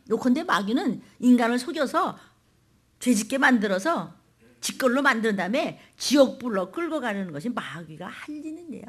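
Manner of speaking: loud, driving sermon delivery; forceful preaching. Real, not acted. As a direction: hammer out the warning to the congregation. (힘주어 외치는 설교)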